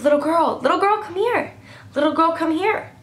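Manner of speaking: lightly voiced creepy old man luring a kid; creepy old man calling. Creepy stranger calling her sister.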